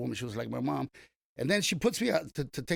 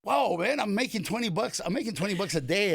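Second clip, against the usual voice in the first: higher, amused disbelief through laughter; laughing retell; 5 semitones higher than usual. Retold or imitated. Valet marveling at the hundred-dollar tip, laughing. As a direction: giggle it out, stunned by money. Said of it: "I said".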